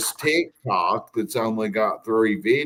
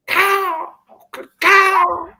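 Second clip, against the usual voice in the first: high shouted call out the window; calling down from balcony; 6 dB louder than usual. Real, not acted. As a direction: call out loud to the bird. Calling out to a crow.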